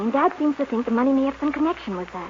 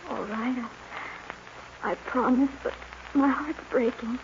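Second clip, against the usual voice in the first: heartbroken goodbye; 6 dB quieter than usual. Acted. Girl saying goodbye heartbroken.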